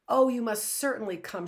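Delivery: breathless, high and loud with joy; excited cry. A narrator's reading. Girl calling her friend to come, excited and loud. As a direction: burst out calling the friend over. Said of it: "she cried out".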